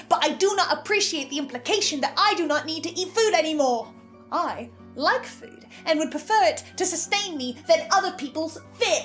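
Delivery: affronted and emphatic; indignant rant. Acted. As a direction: argue it indignantly, hitting key words hard. Indignant rant about food and Gertrude.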